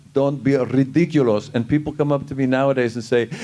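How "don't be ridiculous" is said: a hint of Balki saying his line; the catchphrase in character. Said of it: "I always said".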